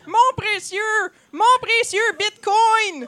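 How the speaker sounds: loud, high creature cry, stretched out; Conspira Gollum. A narrator's reading. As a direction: screech it like a greedy Gollum parody. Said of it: "criant des injures". (cri de créature, aigu et étiré)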